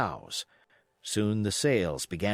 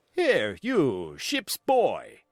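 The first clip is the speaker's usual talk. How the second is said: cried out; much slower than usual. Acted. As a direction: call the boy sharply. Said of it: "he cried".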